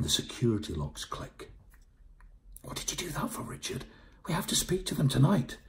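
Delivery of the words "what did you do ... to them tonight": high-pitched, put-out complaint; peeved, high character voice. Acted. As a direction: complain to your companion, pitched well up. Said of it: "Jonty sounded peeved".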